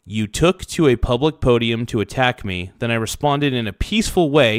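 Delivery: ordinary talk, nothing marked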